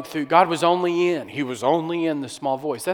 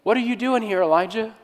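knowing question; 7 semitones higher than usual. Retold or imitated. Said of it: "God knew exactly where Elijah was".

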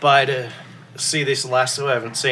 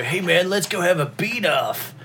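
mock casual invitation; 5 semitones higher, slower than usual. Acting out an awkward invitation.

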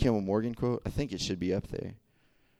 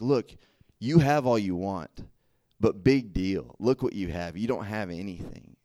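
mocking dismissal; 3 dB louder than usual. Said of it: "kind of the tone that you're reading it in".

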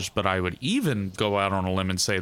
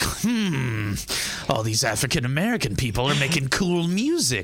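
higher, put-on musing voice; imagined voice of a famous singer; 4 semitones higher than usual. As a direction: voice the singer as a scheming white man. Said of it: "Elvis was like".

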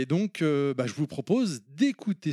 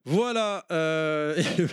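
laughing. Real, not acted. Host laughing through recap.

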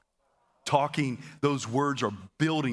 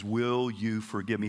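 sincere request; 2 semitones lower than usual. Shown as a demonstration. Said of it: "what's more biblical".

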